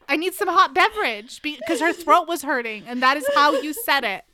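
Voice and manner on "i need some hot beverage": lightly voiced friend, a bit higher and louder; mock her odd little catchphrase; imitating Amanda's phrase. Friend imitates Amanda asking for hot beverage, mock voice. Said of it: "That is how she said it".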